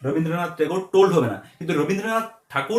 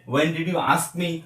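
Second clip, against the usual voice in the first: slow dictation; much slower than usual. Shown as a demonstration. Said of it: "dictating English model sentence".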